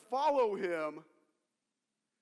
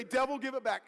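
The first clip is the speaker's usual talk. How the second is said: forceful, raised-pitch command; like you mean it; 4 semitones higher, 4 dB louder than usual. Shown as a demonstration. Preacher modelling the line for congregation, like you mean it. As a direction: demand it back with full conviction. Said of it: "say it like you mean it".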